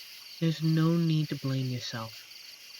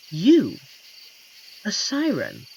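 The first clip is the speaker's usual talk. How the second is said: a sudden louder, higher jump of disbelief; surprised; 3 semitones higher, 7 dB louder, slower than usual. Acted. Forest stranger hears the siren was dumped, surprised disbelief. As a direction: caught off guard by her news. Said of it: "Forgive me if I sound surprised".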